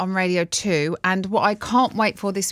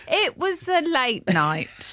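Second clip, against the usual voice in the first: mock coy; 8 semitones higher, much slower than usual. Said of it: "You're like".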